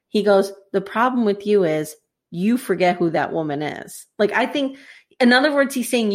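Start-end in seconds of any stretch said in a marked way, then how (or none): 0.7-4.1 deliberate speech in a lightly attempted British accent; hint of British, spoken with weight. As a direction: deliver a solemn lecture in a rough British accent. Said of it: "wish I could do a British accent".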